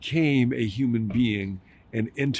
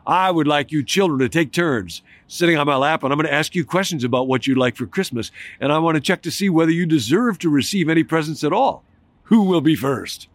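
loud, higher booming Santa voice; thundering Santa; 5 semitones higher, 4 dB louder than usual. Acted. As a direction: fill the room like a big Santa. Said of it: "like a thundering voice".

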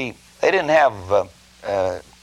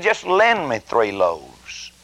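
slow pleading; much slower than usual. Acted. Begging friend asks for bread.

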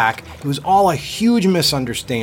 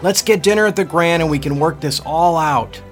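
hollering up; 6 semitones higher than usual. Acted. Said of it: "he hollered up".

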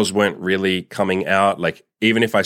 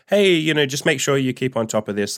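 imitating a kind, upbeat supervisor, higher; friendly supervisor; 6 semitones higher than usual. A supervisor he never had, gently reminding him, lightly imitated friendly. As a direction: mock-friendly boss gently reminding a worker. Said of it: "They were never like".

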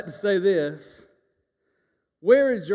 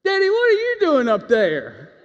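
put-on child calling; 11 semitones higher, 7 dB louder than usual. Child calls to dad on roof.

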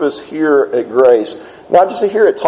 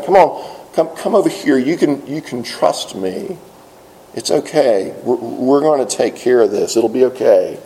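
softer, reassuring invitation, lower; gentle coaxing; 3 semitones lower, 4 dB quieter than usual. Pretend. Jesus quietly reassuring the shy deaf man. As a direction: coax a frightened man to trust you.

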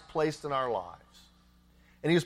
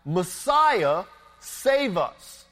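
put-on children crying out; much slower than usual. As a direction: call up to him for rescue. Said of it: "The children are crying out".

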